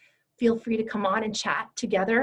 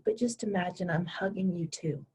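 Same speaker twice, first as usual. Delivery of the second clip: normal talking voice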